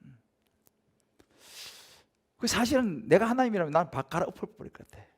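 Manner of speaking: ordinary delivery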